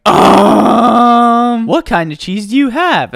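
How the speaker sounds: put-on hesitant small child, very slow; a tiny kid unsure what to say; lightly voiced shy kid ordering a sandwich; little kid ordering.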